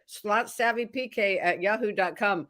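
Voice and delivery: talking through a mouthful of peanut butter; sticky peanut butter in the mouth; mouth full of peanut butter. Real, not acted. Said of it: "Why am I talking a little weird? 'Cause I have peanut butter in my mouth".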